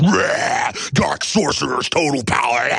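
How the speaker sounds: hammed-up dark lord; mock dark sorcerer. A hint of Sauron, mock menace from the elites. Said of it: "like Sauron or Saruman".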